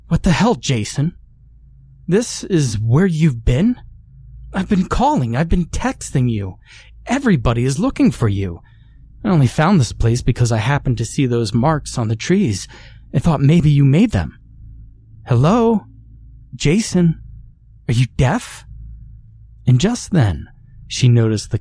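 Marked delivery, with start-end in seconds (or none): 0.1-14.4 put-on high, exasperated scolding girlfriend; angry shouting. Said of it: "interrupted by a shouting female". 15.3-18.6 high, sharp calling out; exasperated shouting. Acted. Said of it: "interrupted by a shouting female".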